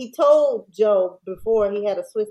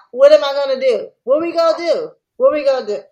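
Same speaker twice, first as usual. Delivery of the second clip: mock panic; 5 semitones higher, 6 dB louder, faster than usual. Joe panicking in the retelling.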